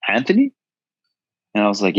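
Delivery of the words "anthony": high, startled call of a name; surprised recognition. Retold or imitated. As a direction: mimic a friend shocked to recognize him. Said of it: "he's like".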